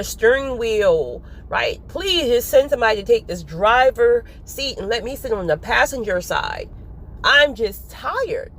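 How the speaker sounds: weary venting to the Lord, a touch of a sob; tired prayer. Retold or imitated. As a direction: pour out your tiredness to God. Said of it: "I just said".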